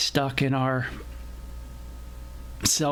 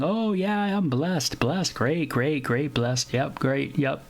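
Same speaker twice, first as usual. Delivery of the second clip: mock complacency. Preacher imitates healthy people who think all is great, mock complacent. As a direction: imitate someone glibly rattling off blessings. Mimics complacent self-congratulating churchgoers.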